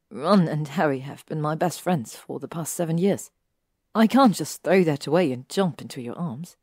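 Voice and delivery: pleading. Acted. Hermione begging Draco to understand her friendships, pleading. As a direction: beg him to understand. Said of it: "Her voice pleaded with him to understand".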